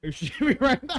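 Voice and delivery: high, loud disbelief; can't believe what he hears; incredulous. Real, not acted. Incredulous at friend's story.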